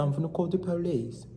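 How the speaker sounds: badly faked Arabic accent; a half-hearted go at an Arabic accent; attempted Arabic accent. Storekeeper threatens to call police, failed Arabic accent. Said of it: "No, that's wrong accent".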